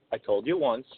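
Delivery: low and measured, long pauses; stern pretend warning. Pretend husband warning his wife, stern. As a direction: space out each word as a final warning. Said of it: "and you said".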